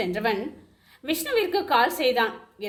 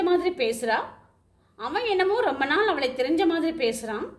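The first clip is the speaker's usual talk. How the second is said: lamenting; 3 semitones higher than usual. Acted. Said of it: "என புலம்ப".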